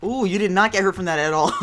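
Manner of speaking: loud laughing taunt; laughing tease. Real, not acted.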